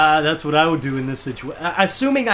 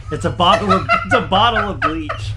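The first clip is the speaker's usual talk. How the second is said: laughing relief; 3 dB louder than usual. Real, not acted. Relief after fake skull.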